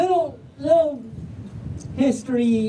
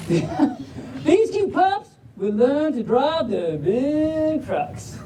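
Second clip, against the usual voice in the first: slow, stretched Southern storytelling; Southern drawl; 4 semitones higher, slower than usual. Acted. Reader introducing pups learning to drive, slow Southern drawl. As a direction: draw out the vowels like a Southerner. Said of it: "but in a Southern drawl".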